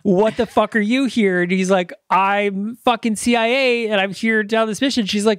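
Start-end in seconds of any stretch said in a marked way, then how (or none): 0.0-1.4 higher-pitched retort of mock disbelief; imitating startled daughter. Daughter finding dad on her mission, mock startled. 2.1-5.1 higher-pitched mock indignant claim; imitating clashing dad. Dad telling daughter he's CIA, mock indignant. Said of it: "And they just clash".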